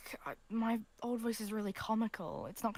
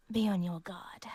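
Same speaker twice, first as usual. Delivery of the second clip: whispering; 9 dB louder than usual. Acted. Character whispers a warning.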